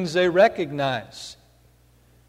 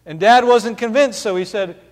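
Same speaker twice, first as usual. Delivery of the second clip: ordinary delivery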